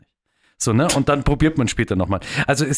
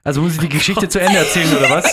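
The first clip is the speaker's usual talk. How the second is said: talking through a laugh; giggling while asking; 3 semitones higher, 3 dB louder than usual. Real, not acted. Jokes about finishing the story.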